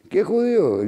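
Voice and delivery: high, incredulous question; indignant, high-pitched disbelief; indignant retort. Real, not acted. Indignant retort at stated reason.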